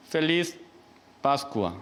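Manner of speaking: "Feliz Pascua" in two separate, careful words; careful Spanish greeting. Shown as a demonstration. Priest showing the Spanish Easter greeting, careful separated "Feliz Pascua". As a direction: sound out "Feliz", pause, then "Pascua" falling. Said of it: "이런 식으로 이제 발음을 하길래".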